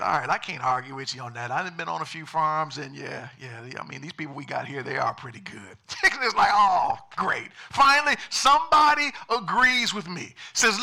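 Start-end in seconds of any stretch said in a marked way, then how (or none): 0.0-5.8 low, easygoing agreement; a hint of a laid-back pig; mellow pig. 6.5-10.3 high, loud relief and delight; excited chicken voice, pitched up. Acted. Excited chicken finds agreement.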